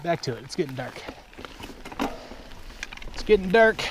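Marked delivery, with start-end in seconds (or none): 3.1-3.8 higher, louder mock pirate voice. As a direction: ham it up like a pirate. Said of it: "I'm riding like a pirate".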